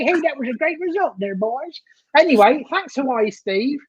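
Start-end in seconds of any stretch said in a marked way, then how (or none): 0.0-1.8 put-on Deep South American voice; Deep South accent. Shown as a demonstration. Co-host showing a listener an accent, Deep South American. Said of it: "We could do deep South accent".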